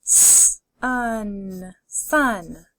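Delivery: d, ot, dot, parts pulled apart then joined; D, ot, dot: each part separate, then the whole word; segmented then blended. Shown as a demonstration. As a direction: sound it out and blend it. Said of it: "Keep saying 'em out loud".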